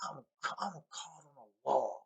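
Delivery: high, drawn-out mock scream; imitated screaming. Fisherman yanking a line he thinks is snagged, mock screaming. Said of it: "he's screaming".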